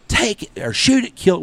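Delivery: high mock holler across the blind; retold holler. Guide hollering to his dad to shoot the goose, high holler. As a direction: call the shot out high and loud. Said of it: "And I holler".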